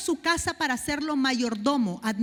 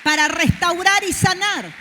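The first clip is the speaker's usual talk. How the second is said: loud, rising sermon cry; full-force preaching; 6 dB louder than usual. Acted. Preacher to the congregation, full-force preaching. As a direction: build the sermon up to a shout.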